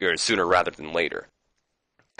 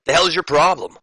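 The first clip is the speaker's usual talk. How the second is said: acted-out irate wrestler, higher and louder; mock indignant challenge, pitched up; pissed off; 8 semitones higher, 5 dB louder than usual. Saturn confronts Funaki over the spilled drink, pissed off. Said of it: "And Saturn's pissed".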